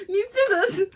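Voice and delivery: high, loud mock Australian accent. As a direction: attempt an Aussie accent, high-pitched. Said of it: "was it an Australian accent".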